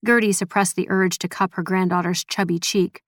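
usual speaking voice

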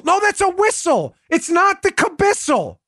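high-pitched, exasperated correction; mock insistence. Host argues over the whistle's name, mock insistent. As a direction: argue back as if losing patience. Acted quarrel over the word.

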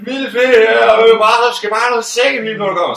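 put-on high, slow slurring drunk woman; high tipsy woman voice, slurring and slow; drunk hostess. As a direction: draw it out like she's had a few. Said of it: "så man bare hører sådan en".

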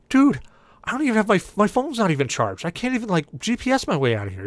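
whiny complaint. Retold or imitated. Stranded passenger whines to cabbie about dead phone.

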